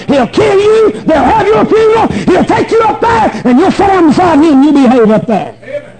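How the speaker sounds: forceful revival preacher delivery; full-force preaching. Real, not acted. Preacher warning Christians that God will whip them, full-force preaching. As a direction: drive each warning home hard.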